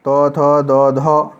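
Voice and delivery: ट, ठ, ड, ढ each said slowly with pauses; teacher lists the ट-group letters slowly one by one; spelled-out letters. Shown as a demonstration. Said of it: "त से तबर्ग".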